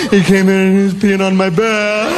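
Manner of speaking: lightly voiced little girl, pleading and giggly; a child sweetly spinning a tall tale. Little daughter explains the giant cat to dad, in a light mock child voice.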